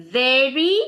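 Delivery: 'very' lifted with a rising end. Shown as a demonstration. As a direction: lift the word 'very' upward for emphasis. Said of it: "it has to be in a higher pitch".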